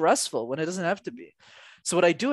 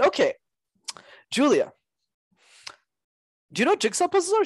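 mock teacher voice; 12 semitones higher, faster than usual. Acting out asking a child.

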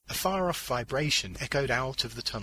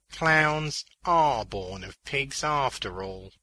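slow, raised character voice; higher put-on voice, concluding slowly; Beaners; 4 semitones higher, 4 dB louder, slower than usual. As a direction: draw the conclusion out slowly, pitched up. Beaners comments on the clown birth.

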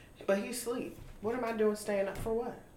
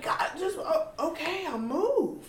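high, put-upon sigh of giving way; mock exasperation; 9 semitones higher, slower than usual. She gives way to strangers, high mock exasperation. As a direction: grudgingly step aside, hammed-up. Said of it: "but I'm just like".

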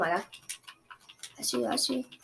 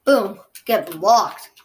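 boom, get blocked, slow and much louder; gloating shout; 10 dB louder, much slower than usual. Real, not acted. Taunting the opponent he just blocked, slow loud gloat. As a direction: drag it out and rub it in.

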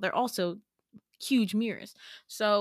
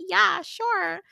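sarcastic yeah sure; 11 semitones higher, 5 dB louder than usual. Retold or imitated. Humouring a stranger in dream.

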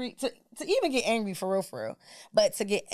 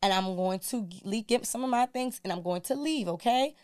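calm gentle; 2 semitones higher than usual. Retold or imitated. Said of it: "I told her just like this".

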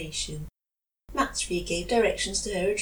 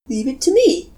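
blurted out; 7 semitones higher, 8 dB louder than usual. Acted. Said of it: "Karamatsu blurted".

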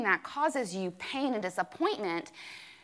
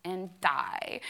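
retelling her dramatic answer over coffee, softer; 5 dB quieter than usual. Retold or imitated. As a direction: play up the gloom like it's the end. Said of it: "being really dramatic".

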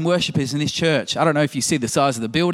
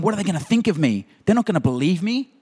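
worried Moses; 6 semitones higher than usual. Retold or imitated. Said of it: "now he's worrying about the future".

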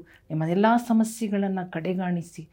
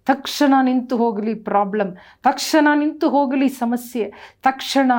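higher and louder with each ತಕ್ಷಣ; building command; 5 semitones higher, 7 dB louder than usual. Acted. Pastor commanding the illness to stop, rising in force.

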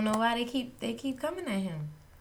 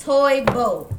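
slow toy boat; 11 dB louder than usual. Shown as a demonstration. Podcaster carefully testing a tongue twister, slow. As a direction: TOY BOAT said slowly and loudly, each word drawn out. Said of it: "I'm trying to say it slow".

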